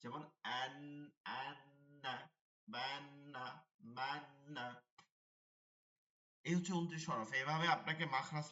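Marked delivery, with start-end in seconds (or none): 0.4-4.7 held nasal n in অ্যান্না, ব্যান্না, ম্যান্না; ghunnah. Shown as a demonstration. Teacher showing ghunnah, held in the nose. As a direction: hum the n of অ্যান্না through the nose. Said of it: "নাকের মধ্যে নিয়ে গুণনা করতে হয়".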